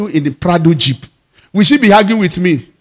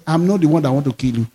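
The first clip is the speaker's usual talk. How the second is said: low, calm divine voice; lightly voiced God reassuring; 3 semitones lower than usual. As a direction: speak as God, steady and sure. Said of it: "I heard his voice".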